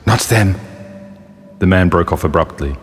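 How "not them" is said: small, higher-pitched metal toy; faint metallic voice. A narrator's reading. Toy soldier rejecting the two women, in a high metallic voice. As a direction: object in a little metallic voice. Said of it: "a faint metallic voice came".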